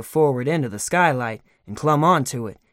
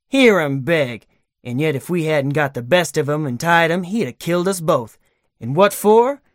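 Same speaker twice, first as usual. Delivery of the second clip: louder, higher angry ruffian; gloating thug; 3 semitones higher, 4 dB louder than usual. Acted. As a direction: sneer down at the bound man. Gunman gloats and threatens.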